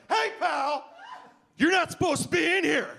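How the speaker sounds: bouncer voice. Retold or imitated. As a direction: play the tough bouncer scolding. Bouncer confronting drunk comic.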